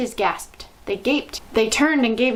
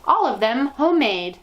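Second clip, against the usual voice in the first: fiendish leer; 4 semitones higher, 5 dB louder than usual. Acted. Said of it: "she added with a fiendish leer".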